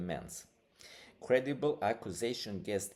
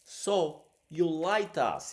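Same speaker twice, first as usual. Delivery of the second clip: loud, high accusing voice; a sharp, raised rebuke; retold angry accusation; 8 semitones higher, 10 dB louder than usual. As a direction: throw the accusation at her. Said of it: "he said".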